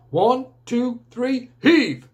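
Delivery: rally the team to heave; calling out. Acted. Grandpa calling team to pull.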